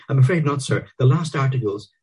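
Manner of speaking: high, meek servant voice; bow and scrape; servile flunkey. A narrator's reading.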